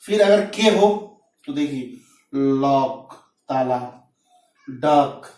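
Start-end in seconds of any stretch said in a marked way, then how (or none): 2.6-3.1 लॉक drawn out slowly, ending on K; slow model of the final K in लॉक. Shown as a demonstration. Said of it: "क का उच्चारण, लॉक, डक".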